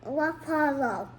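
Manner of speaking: eating and talking at once; mouth full. Real, not acted. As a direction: speak through a mouthful. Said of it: "can't be eating and talking".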